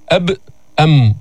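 "أب، أم" each ending on firmly shut lips; closed lips. Shown as a demonstration. Teacher proving both letters need closure, crisp "أب، أم". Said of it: "وتخرج بانطباقهما".

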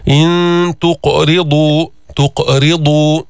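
تقرضوا with a bouncing ق, drawn slowly; echoing qaf. Shown as a demonstration. Teacher shows the echoing ق for the class. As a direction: say تقرضوا with a clear echo on the ق. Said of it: "جبنا القلقلة تاعت القاف".

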